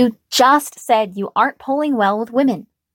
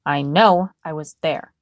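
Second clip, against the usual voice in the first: spat out; 5 semitones lower than usual. Acted. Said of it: "he spat out".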